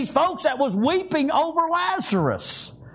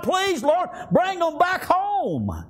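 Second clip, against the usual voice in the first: pleading prayer; 4 semitones higher, slower than usual. Retold or imitated. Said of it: "begging God".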